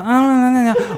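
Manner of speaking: lightly nasal sighing clown imitation; whiny nasal voice. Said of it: "une voix nasillarde un peu comme ça".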